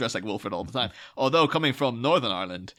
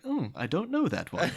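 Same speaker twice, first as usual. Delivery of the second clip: slow, lightly imitated computer assistant; 3 semitones higher, 4 dB quieter than usual. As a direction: lightly play a puzzled assistant. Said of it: "half the time it's like".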